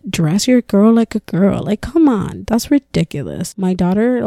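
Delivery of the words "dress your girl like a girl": slow, drawn-out parody of a rule; mocking. Mom mimicking gender rules she hates, mocking. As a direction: imitate a preachy traditionalist, stretching each phrase. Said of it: "I hate the whole, like".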